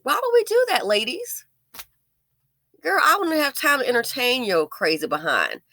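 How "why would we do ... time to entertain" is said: mock prim. Real, not acted. Addressing ladies, still raised.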